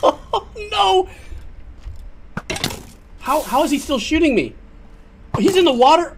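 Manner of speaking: high, loud laugh-cry of panic; panicked laughing. Real, not acted. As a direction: laugh through the panic while being shot. Still being shot, laughing panic.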